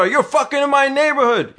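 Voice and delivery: high, loud furious yelling at the car; loud outraged stranger banging on the window; angry man's shout. Retold or imitated. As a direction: bellow it like an enraged neighbor. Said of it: "the guy's banging on the window".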